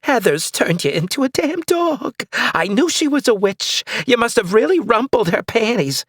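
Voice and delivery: put-on high, crotchety old lady; cranky old woman. Old neighbor ranting about the witch, high and crotchety. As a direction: rant like a suspicious old neighbor.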